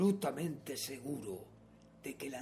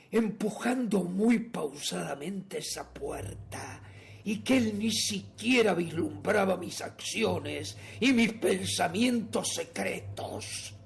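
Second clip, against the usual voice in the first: louder, higher gothic narration; exaltación siniestra; 4 semitones higher, 4 dB louder than usual. A narrator's reading. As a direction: build with intensity, drawing out the last words. Narrador loco cuenta su crimen. (narración exaltada y siniestra)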